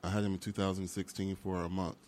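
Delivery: talking through hiccups; hiccuping between words. Real, not acted. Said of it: "I'm sorry, I have hiccups".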